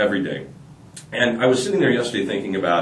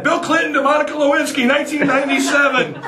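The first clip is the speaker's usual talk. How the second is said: laughing punchline. Acted.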